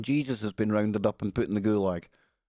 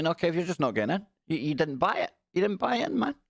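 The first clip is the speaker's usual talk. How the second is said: fast, higher-pitched Glaswegian Russian; 5 semitones higher, faster than usual. Acted. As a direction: turn him away in a mock Glaswegian Russian accent. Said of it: "gonna be a Glaswegian Russian guy".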